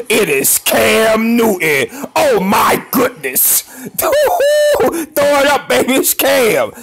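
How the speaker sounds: high, slow excited yells; high drawn-out hype; hyped shouting. Real, not acted. Excited highlight reaction.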